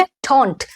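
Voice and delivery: "डोंट" with an English vowel and released final t; careful English "डोंट", t clearly released; correct don't. Shown as a demonstration. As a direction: model "डोंट" on its own, falling. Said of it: "क्या है ये".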